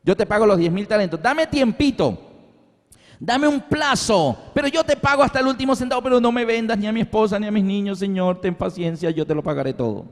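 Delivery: acted desperate pleading, running on quickly; begging. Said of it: "Llorando de rodillas clamaba".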